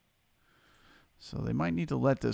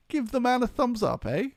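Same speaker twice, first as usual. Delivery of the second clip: hyped shout-out; 11 semitones higher than usual. Acted. Hyping up viewer to chat.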